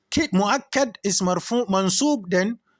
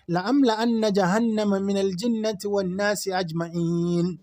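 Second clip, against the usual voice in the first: Quran recitation. Real, not acted. Teacher reciting the verse to students in measured chant.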